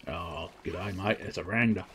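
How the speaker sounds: lightly put-on Australian accent. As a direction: do a casual mock Australian greeting. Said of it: "I put it in an Australian accent".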